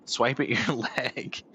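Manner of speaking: mock angry cat. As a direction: voice the cat's outrage, half-laughing. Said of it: "the really angry one he did".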